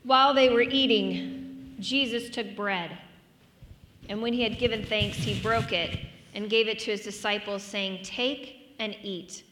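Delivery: measured, projected scripture reading. Acted. Pastor reading scripture aloud to the standing congregation, projected reading. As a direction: read the Gospel out to the room.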